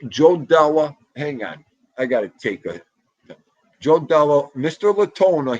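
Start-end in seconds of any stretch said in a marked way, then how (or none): 0.1-1.0 louder call of the name. Real, not acted. Calling out a chat name. 3.8-5.6 louder call of the name. Real, not acted. Calling out a chat name.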